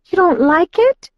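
high, hurt little question; disappointed. A narrator's reading. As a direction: let disappointment show. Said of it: "face clouded with disappointment".

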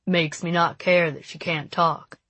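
lightly voiced cocky boy; West. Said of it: "West said".

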